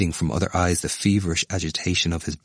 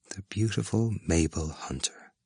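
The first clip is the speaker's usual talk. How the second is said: musing; 2 semitones higher, 6 dB quieter than usual. A narrator's reading. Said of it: "said musingly".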